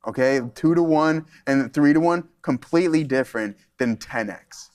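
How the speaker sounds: dry mock lecture, said with sarcasm; sarcastic. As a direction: lay the sarcasm on while quoting. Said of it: "I know you heard the sarcasm in my voice".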